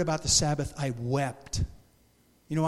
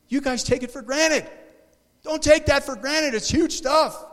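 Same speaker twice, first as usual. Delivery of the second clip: fervent retold urging; 9 semitones higher, 5 dB louder than usual. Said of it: "I'm like".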